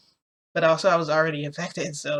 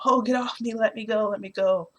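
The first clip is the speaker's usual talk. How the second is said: mild mock yell, pitched high then easing; higher-pitched retold cries of protest; mock scream; 5 semitones higher than usual. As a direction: imitate a man screaming to be released, without real volume. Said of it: "He's screaming his head off".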